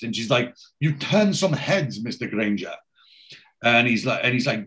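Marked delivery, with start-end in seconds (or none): 0.8-2.7 impressed. Retold or imitated. Tatiana compliments Granger at the restaurant, mildly impressed. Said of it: "she's very impressed".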